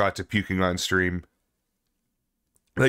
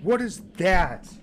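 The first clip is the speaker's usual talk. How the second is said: high, loud panicked screaming; panicking gamer; 11 semitones higher, 4 dB louder, much slower than usual. Real, not acted. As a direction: shriek in real fright. Monster appears in horror game.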